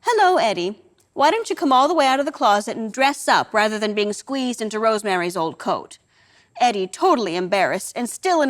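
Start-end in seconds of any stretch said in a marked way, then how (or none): 0.0-6.0 casual. Acted. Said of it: "in the most casual manner".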